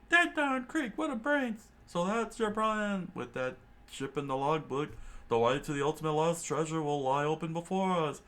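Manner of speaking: crewmate marvels at the captain's plan, excited high voice; excited pirate crewman. A narrator's reading. Pirate crewman, high and excited.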